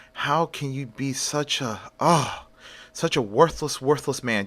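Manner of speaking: a mother at a loss, berating her son; exasperated scolding. Acted.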